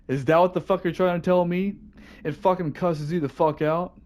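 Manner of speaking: can't believe what you're reading; incredulous. Real, not acted. Reacting to the cursing fish letter in disbelief.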